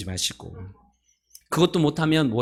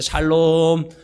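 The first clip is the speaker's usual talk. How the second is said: loud shalom; 5 semitones higher, 6 dB louder, much slower than usual. Shown as a demonstration. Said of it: "자, 시작".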